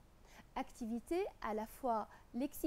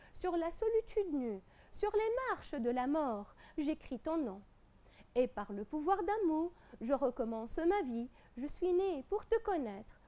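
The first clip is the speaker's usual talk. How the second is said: lecture de poème. Acted. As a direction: lecture posée de poème, vers bien détachés. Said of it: "Je vous lis d'abord les deux strophes". (récitation scolaire de poésie)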